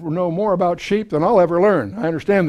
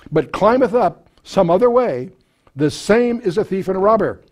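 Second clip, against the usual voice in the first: raised, solemn King James reading voice; preacher reading the Bible text aloud, solemn and raised; scripture reading; 2 semitones higher, 3 dB louder than usual. Acted. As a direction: proclaim the verse to the congregation.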